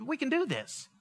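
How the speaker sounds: soft, gentle coaxing; reassuring God. Acted. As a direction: quietly reassure a nervous follower. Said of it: "God's like".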